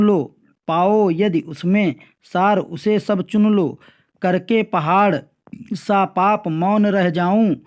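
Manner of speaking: slow, drawn-out verse reading; poem recitation. Acted. Teacher reads a verse from the question paper to pupils, slow poem recitation. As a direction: recite slowly, stretching the words line by line.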